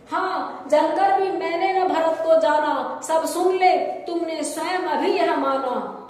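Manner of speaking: measured, declaimed verse; poem recitation. Acted. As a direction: recite it as a dramatic Hindi poem.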